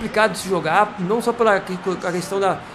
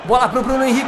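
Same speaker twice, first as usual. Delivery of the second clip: ordinary talk, nothing marked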